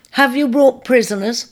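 put-on high piping young voice. A narrator's reading. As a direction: pipe up eagerly. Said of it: "piped up a third".

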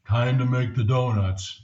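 a hint of a tired worker's drone; resigned drone. A resigned employee reciting the donut-shop slogan, lightly voiced. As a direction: murmur it like a worker clocking in.

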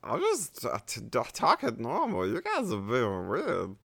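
loud, high-pitched bad British accent; over-the-top British accent, high and defensive; attempted British accent. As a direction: protest loudly in a squeaky, botched British accent. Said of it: "That was an attempt at British".

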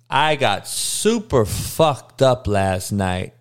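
slow, hungover drawl. Real, not acted. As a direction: sluggish hungover voice. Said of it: "So today I'm a little slow".

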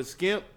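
"skimp" with a hard sk and no r; dialect pronunciation. Retold or imitated. Speaker quoting how others say shrimp, dialect pronunciation. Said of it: "they say skimp".

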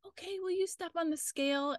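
high, polite mock-nurse request; imitated triage lady. Imitating the triage lady directing a patient, high-pitched.

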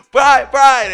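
high, loud call for help. Retold or imitated. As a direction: imitate a swimmer calling out for a friend. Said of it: "Sean is calling for me".

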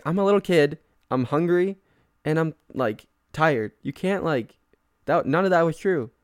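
mildly hammed-up little-kid pleading; sheepish retold apology. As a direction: imitate yourself making childish excuses. Retold apology after argument.

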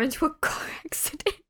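whispered punchline. Real, not acted. Comparing days with her friend, whispering the punchline. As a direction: drop into a whisper for the joke. Joking aside about her day.

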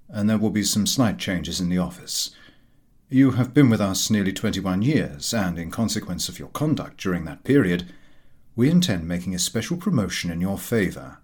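formal, kindly boss giving good news; lightly voiced employer.

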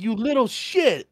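high, drawn-out mock outrage; outraged. Teller to the cousin who told on him, mock outrage. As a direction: act out indignation, stretching the words up high. Retold anger at cousin's tattling.

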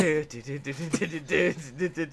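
quick doo-doo-doo mouth music; imitated music riff.

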